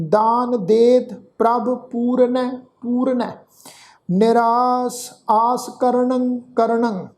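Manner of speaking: slow, sustained sacred verse; measured Gurbani recitation; scripture recitation. Shown as a demonstration. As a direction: recite slowly, holding the long vowels.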